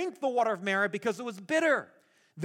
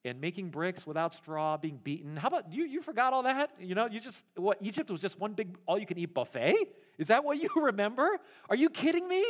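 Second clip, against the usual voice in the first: sarcastic Moses. Retold or imitated. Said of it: "And Moses is like".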